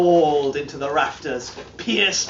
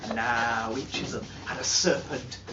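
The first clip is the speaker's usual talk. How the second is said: softer, low and secretive; a hint of an ominous hush; hushed telling; 3 semitones lower, 7 dB quieter than usual. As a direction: draw the listeners in close. Addressing audience in hushed tone.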